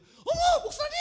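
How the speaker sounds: high, loud mock cry of recognition; delighted surprise. Nurse spots her pastor at the clinic, surprised. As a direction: imitate a startled, high-pitched greeting.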